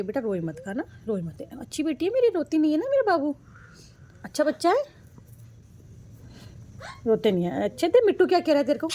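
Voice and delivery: singsong coaxing, pitch swooping up and down. Real, not acted. Mother comforting her sick crying son, coaxing singsong. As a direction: coax him to stop crying like a loving mum.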